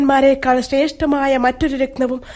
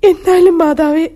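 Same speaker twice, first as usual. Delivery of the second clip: pleading protest; 4 semitones higher, 6 dB louder than usual. Acted. Draupadi protesting to mother-in-law.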